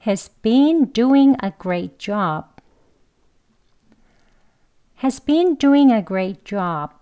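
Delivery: He's been doing a great job, been and doing said fully and slowly; strong form sentence. Shown as a demonstration. Teacher modelling the full careful sentence. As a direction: spell out every word slowly. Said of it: "같이 한번 해볼게요".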